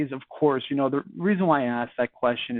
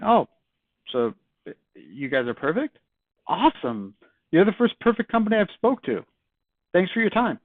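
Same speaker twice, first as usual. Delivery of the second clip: mock-impressed, rising higher toward the end; sarcastic; 4 semitones higher than usual. Shown as a demonstration. Caller teasing a prospect who claims no room to improve, sarcastic. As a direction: tease them about being perfect. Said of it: "You can clarify by saying".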